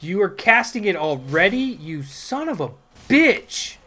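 very loud, high shrieking fury; staged rage. Acted. Gamer screaming at the enemy healer, theatrical fury. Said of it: "put a little more, you know, theatrics".

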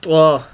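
त्वा with the tongue tip on the upper gum ridge; letter demo. Shown as a demonstration. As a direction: say त्वा heavy and full. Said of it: "इसके बाद का जो लफ्ज़ है".

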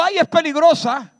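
high, whiny mock panic; a mock-scared cry about the storm; mock fearful wail. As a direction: mimic a frightened disciple, hammed up. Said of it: "Jesús no dijo".

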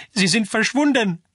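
high, urgent acted call; distraught cry from afar. A narrator's reading. Man returning from searching calls out that the children are gone, distraught. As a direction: cry out bad news before you have reached them. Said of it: "rief er schon von weitem".

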